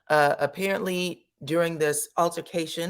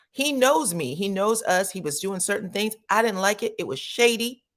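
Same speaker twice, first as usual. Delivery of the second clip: higher, indignant retelling; indignant Kandi; 4 semitones higher than usual. Retold or imitated. Kandi complaining about Carlos, pitched-up indignation. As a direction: stress knows with offended disbelief. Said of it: "but she said".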